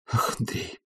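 breathy, pleading almost-whisper; tender pleading. A narrator's reading. Oblomov begs his friend Andrei, tender pleading whisper. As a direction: beg him softly, leaning on his shoulder. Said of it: "сказал он нежным, умоляющим голосом".

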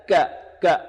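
ك as a hard k with no puff of air; short breathless ك; kaf without breath. Shown as a demonstration. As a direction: mimic students' unaspirated ka. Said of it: "لا يأتي بالهمس في الكاف".

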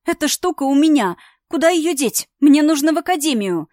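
high, loud panicked questions; frantic, near tears; panicked shout. A narrator's reading. Daughter panicking to father about the artifact, high loud cry.

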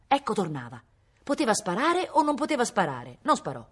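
ordinary delivery, nothing marked

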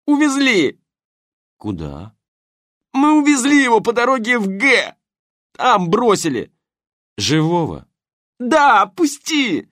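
high loud thug shouting, begging; panicked shouting. Acted. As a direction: blurt it all out in pain. Грабитель кричит под пыткой. (крик грабителя под болью)

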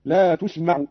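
"تسمع" as "tusma'u", starting with tu-; damma on taa. Shown as a demonstration. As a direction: round the first vowel of "تسمع" to u. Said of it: "قرأ قالون بضم التاء". ("تسمع" بضم التاء)

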